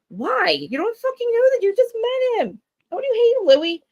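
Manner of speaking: high, loud, exasperated demand; outraged shouting. Real, not acted. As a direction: let the outrage burst out at him. Outraged rant at the husband.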